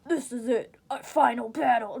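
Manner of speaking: a hint of a gravelly old soldier; lightly voiced grim warning; gruff voice. Old age speaking to Snake, mock gruff. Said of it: "That's a terrible Crom impression".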